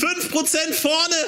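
slow, high and thrilled; excited announcement. Real, not acted. Ergebnis wird live verkündet. (begeisterte Ansage)

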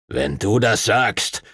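slow, grudging mild growl. Acted. Duncan answers Stuart while leaving, mild slow growl. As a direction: bite it off, sullen. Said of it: "knurrte Master Duncan".

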